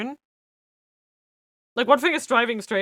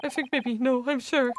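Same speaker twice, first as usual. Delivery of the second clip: higher, eager bobby voice; cheery constable voice; 4 semitones higher than usual. Acted. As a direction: play a keen, proud London constable. Constable accuses the girl.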